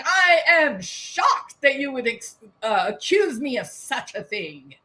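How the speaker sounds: lightly voiced huffy denial; a hint of offended innocence on the way out; mock indignant cheater. Cheating spouse storming out, mock indignant. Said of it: "grand exit saying".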